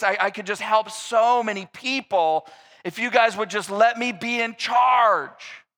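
hammed-up campaign promise; mock pleading pitch. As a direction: sell yourself like a scheming politician. Absalom's campaign pitch voiced.

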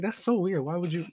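baffled. Retold or imitated. Puzzled by his friend ignoring him, high incredulous. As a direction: squeak it out in disbelief. Reacting to friend's silent treatment.

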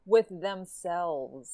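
WITH THEMSELVES drawn out very slowly for emphasis; slow, deliberate stress across "With themselves"; emphatic inflection. Real, not acted. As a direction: stretch "With themselves" slowly, making it a pointed qualifier. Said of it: "the voice, the inflection".

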